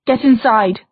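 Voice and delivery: sharp shouted command; shouting. Acted. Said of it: "shouted Diana".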